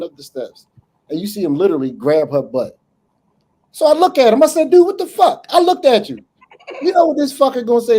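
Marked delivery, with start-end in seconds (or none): 3.7-8.0 worked up. Retold or imitated. Building outrage retelling the scene.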